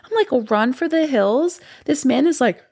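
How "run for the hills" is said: alarmed mock cry. Retelling her alarmed reply.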